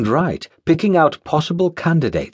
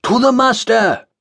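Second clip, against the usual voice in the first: group reply; 10 semitones higher than usual. Acted. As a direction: echo the toast back. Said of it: "the others replied".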